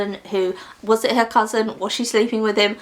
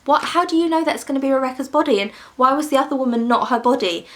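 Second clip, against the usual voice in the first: disbelieving questions; 4 semitones higher, faster than usual. Retold or imitated. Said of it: "And our woman's like".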